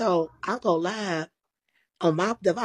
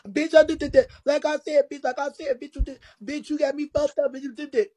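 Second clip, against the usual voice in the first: higher, a retold shouting match; retold yell; 7 semitones higher than usual. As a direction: hurl the insults back at her. Retelling Cammy's shouted insults.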